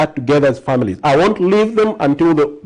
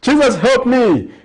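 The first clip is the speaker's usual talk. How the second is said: high, drawn-out plea to Jesus; pleading; 11 semitones higher, slower than usual. Acted. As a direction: cry out slowly for help, much higher. Answering what to ask Jesus.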